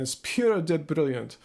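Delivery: amateur Scottish impression; Scottish accent. Shown as a demonstration. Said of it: "Wanna see my accent again".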